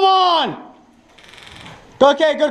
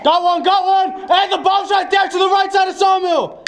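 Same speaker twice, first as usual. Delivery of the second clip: shouted callout; 4 semitones higher than usual. Real, not acted. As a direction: yell the bomb spot. Calling out bomb location.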